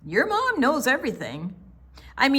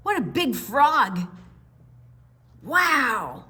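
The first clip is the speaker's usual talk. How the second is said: frog voice; 4 semitones higher, 4 dB louder than usual. Acted. Frogs voiced in picture book.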